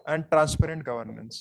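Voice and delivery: slow, spaced-out dictation of a heading. Shown as a demonstration. Teacher dictating a heading for students to copy, slow. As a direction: spell the heading out slowly for note-taking.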